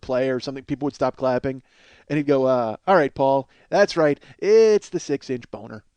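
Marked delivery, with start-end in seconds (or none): 2.9-5.8 louder, deadpan talk-show host, slow on the punchline; a light imitation of a dry late-night host; David Letterman delivery. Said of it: "I can do the delivery".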